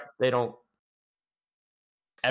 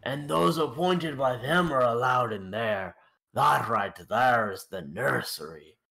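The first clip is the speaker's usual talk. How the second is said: put-on Irish-Scottish accent; 2 semitones higher, slower than usual. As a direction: point at the cave in an Irish-Scottish lilt. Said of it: "the one with the Irish Scottish accent".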